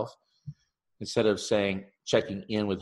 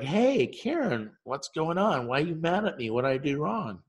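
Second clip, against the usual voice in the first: higher, nervous asking of the boss; anxious pleading; 6 semitones higher than usual. Retold or imitated. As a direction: plead anxiously as if already in trouble. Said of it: "And I was like".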